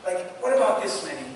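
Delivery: a hint of a desperate intercessor; Abraham pleading. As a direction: plead as if lives depend on it. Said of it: "He's saying".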